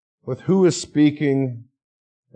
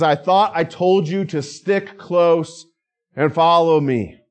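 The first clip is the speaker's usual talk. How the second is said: a touch of a father's scolding, raised; mild scolding; 3 semitones higher than usual. Retold or imitated. Father finding his lost child in the store, mild scolding. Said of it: "he scolded me".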